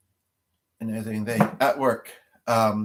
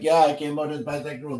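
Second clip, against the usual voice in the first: light Indian accent impression; 2 semitones higher than usual. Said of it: "does that sound more Asian than Indian?".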